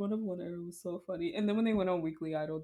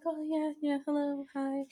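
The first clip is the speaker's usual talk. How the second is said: higher, breezy put-on girl's voice; imitating a flustered girl; 10 semitones higher than usual. Retelling the fan girl greeting the star, high put-on voice. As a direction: gush a quick hello like a starstruck fan. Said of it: "And she was like".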